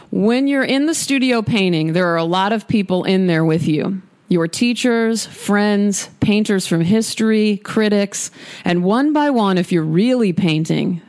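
measured, deliberate reading aloud; quote reading. Acted. Podcast host reads painter's studio mantra to listeners, deliberate quote reading. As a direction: read it out with lifts on each item.

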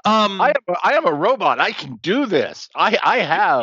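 toy robot voice. Acted. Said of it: "very sophisticated voice synthesization".

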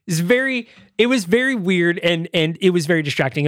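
usual speaking voice

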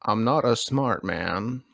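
lightly put-on slow, simple-man voice; slow simpleton impression. Joking about glass etiquette, slow simple-man impression. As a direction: drag it out in mock earnest. Forrest Gump style quote, doing voices.

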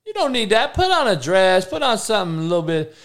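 high, incredulous mock outrage at a girl in yoga pants; exasperated disbelief. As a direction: squeal it like you can't believe your eyes. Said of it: "I'm like".

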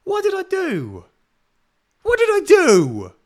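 high, slow, loud exasperated rant at an ex-friend; exasperated outburst. Retold or imitated. Vented at the coach who unfollowed her, high and exasperated. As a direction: let the hurt boil over, dragging each word. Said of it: "And I'm just like".

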